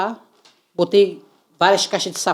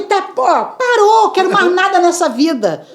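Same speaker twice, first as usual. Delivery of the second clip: mock diva; 10 semitones higher than usual. Mock diva about fame.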